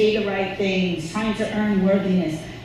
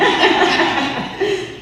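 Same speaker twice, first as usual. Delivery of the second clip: a short laugh; 9 semitones higher, 4 dB louder than usual. Real, not acted. Laughs at his slip.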